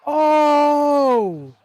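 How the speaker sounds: loud, high startled yell; shocked shout. Real, not acted. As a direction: blurt it out in shock. Sudden shocking spot on screen.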